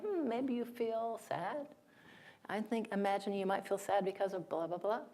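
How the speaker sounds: soft, musing gentle guess; tentative reflecting. Acted. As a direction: offer it softly, as a careful guess. Acts out gently guessing someone's feeling.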